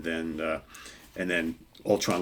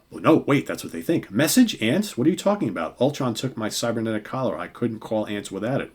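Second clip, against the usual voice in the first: higher, confused and rattled outburst; agitated Hank; 3 semitones higher, 4 dB louder than usual. Acted. Reviewer voicing a confused Hank to the heroes, high and bewildered. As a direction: protest in a raised, bewildered voice. Hank voiced in comic retelling.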